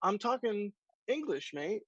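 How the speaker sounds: imitating a broad Australian accent; thick Australian accent. Stranger on a German train platform, imitated in a thick Australian accent. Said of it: "in a very thick Australian accent".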